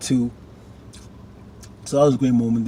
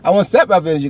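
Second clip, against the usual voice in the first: exasperated rant; 2 semitones higher, 4 dB louder than usual. Real, not acted. Fed up with Ralph Angel.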